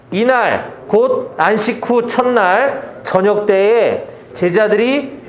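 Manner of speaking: slow, measured congregational Bible reading; deliberate, evenly paced recitation; scripture reading aloud. Acted. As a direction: lead everyone through the verses, drawing out phrase endings.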